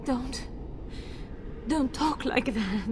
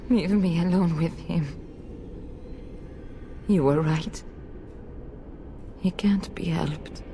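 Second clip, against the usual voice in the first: whisper; 8 semitones lower than usual. Acted. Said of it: "whispered resignation".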